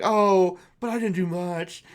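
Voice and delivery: cheesy false modesty. Acted. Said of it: "really cheesy kind of".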